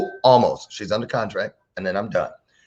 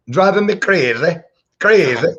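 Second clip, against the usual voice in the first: mock Irish accent; 7 semitones higher, 5 dB louder than usual. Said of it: "a word he kept using".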